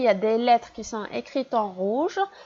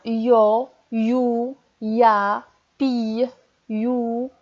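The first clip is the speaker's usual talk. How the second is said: each syllable read out for the class, some louder; syllable reading drill; 3 dB louder, much slower than usual. Shown as a demonstration. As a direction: lead the class through the syllables. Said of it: "Relisez avec moi".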